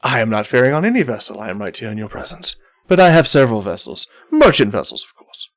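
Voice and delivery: lightly voiced, brisk ship's captain; a hint of a dignified captain, talking quickly; suave merchant captain. Captain answering a player about his vessels, lightly voiced captain.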